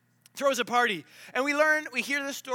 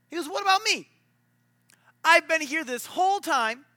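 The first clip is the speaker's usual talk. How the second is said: higher, louder resentful rant; indignant complaint; 3 semitones higher, 3 dB louder than usual. Retold or imitated. Older brother complaining to dad, mock indignant. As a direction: whine out the grievance.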